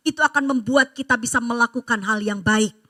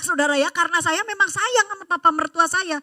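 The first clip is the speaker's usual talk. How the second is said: normal talking voice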